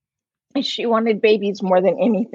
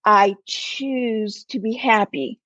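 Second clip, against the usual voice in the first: calm resolve; slower than usual. Retold or imitated. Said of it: "she's like".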